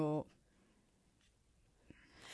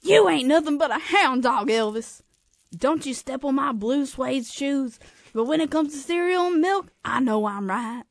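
higher, louder pop star impression; a singer; 4 semitones higher, 4 dB louder than usual. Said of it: "can I be Michael Jackson?".

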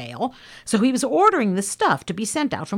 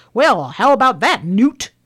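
imitated loud, raised-pitch phone holler; shouting into telephone; 5 semitones higher, 7 dB louder than usual. Father to Newt on the shared telephone, hollering. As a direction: call down a party line to a neighbour. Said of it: "didn't have to shout over the telephone".

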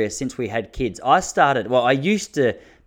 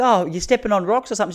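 lightly higher, puzzled mock voice; a hint of a gently probing relative; mildly raised questioning impression; brother-in-law; 8 semitones higher than usual. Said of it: "He's like".

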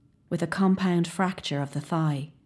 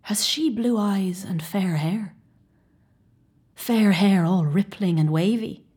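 dread; 3 semitones higher than usual. Acted. O'Donnell questioning the physician, hushed rising dread. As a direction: ask what you fear to hear.

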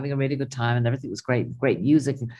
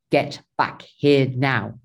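stern order; much slower than usual. Retold or imitated. Retold order to missing husband.

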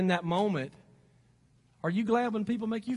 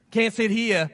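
hammed Southern accent impression; a rough stab at a Southern movie accent; Forrest Gump; 4 dB louder, slower than usual. Preacher recalling what she said in the film, mock Southern accent. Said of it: "in Forrest Gump language".

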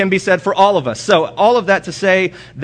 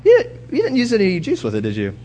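raised, light mock wife voice; voicing his wife's quiz, higher; 6 semitones higher than usual. Husband imitating his wife asking about the juice, mock questioning. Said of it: "She's like".

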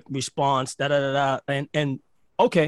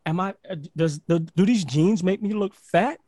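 a lightly raised, fretting woman's voice; imitating a worried woman; 4 semitones higher than usual. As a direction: ask it the way an anxious girlfriend would.

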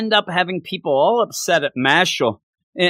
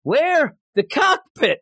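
raised, higher calling voice; mock calling out; 7 semitones higher, slower than usual. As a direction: shout the question down the line. Phone call in the retold scene.

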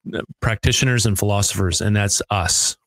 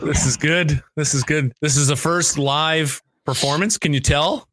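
trying not to laugh; 5 semitones higher than usual. Real, not acted. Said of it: "I'm trying not to laugh".

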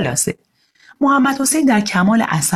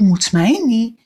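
surprised; 4 semitones higher, slower than usual. Acted. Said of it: "بابا با تعجب پرسید".

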